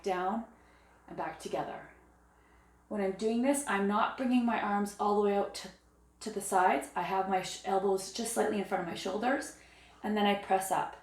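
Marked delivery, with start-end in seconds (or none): 2.9-11.0 hoarse, losing her voice. Real, not acted. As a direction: voice going raspy and hoarse. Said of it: "Sorry, I'm losing my voice".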